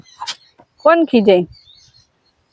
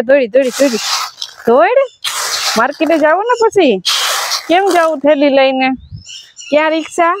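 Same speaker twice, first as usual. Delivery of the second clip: higher, sing-song coaxing; 3 semitones higher than usual. Real, not acted. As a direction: lure the little one along. Coaxing toddler with market trip.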